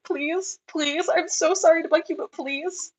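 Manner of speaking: mock begging in a high little voice; retold pleading. Exhibitor begging show secretary for a tag change, pleading. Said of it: "begged them to let me change my tag".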